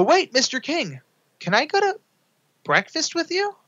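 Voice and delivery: very high, pleading squeak; star-struck high-pitched request; eager plea. Retold or imitated. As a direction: beg him like a hopeful kid.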